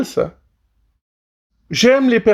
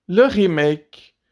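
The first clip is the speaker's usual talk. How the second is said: dull remake voice; slower than usual. Shown as a demonstration. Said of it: "À droite, le remake".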